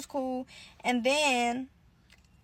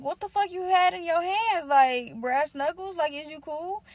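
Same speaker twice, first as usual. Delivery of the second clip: shocked questioning; 5 semitones higher, slower than usual. Retold or imitated. Confronting sister after the fight.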